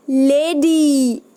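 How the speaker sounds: लेडी slow, drawn out; slow demo word. Shown as a demonstration. Teacher reads a picture word to children, slow. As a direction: sound out लेडी for the kids. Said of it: "कौन सी sound आ रही है आपके पीछे".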